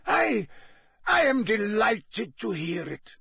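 high, hasty pleading; hurried, nervous. A narrator's reading. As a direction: rush to explain. Karkaroff faking delight.

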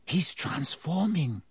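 hushed dread as he changes; tense Hermione. A narrator's reading. Hermione watching Lupin.

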